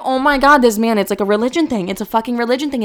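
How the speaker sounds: rushed mock panic; retold freak-out. Server learning he's eating pork, retold freak-out. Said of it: "I'm, like, freaking out".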